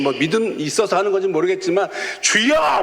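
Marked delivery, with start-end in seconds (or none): 2.2-2.8 high, louder call of the word; kids crying out. Retold or imitated. Kids at the worship service, calling out high and loud. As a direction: shout it like a fervent kid. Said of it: "막 해요".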